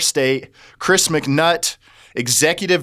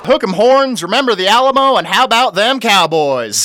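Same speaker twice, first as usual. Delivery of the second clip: excited cheering; 6 semitones higher, 5 dB louder than usual. Acted. Texas cheers in hyped voice.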